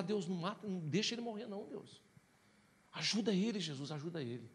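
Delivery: retold pleading prayer. Pleading with God for pastor's life.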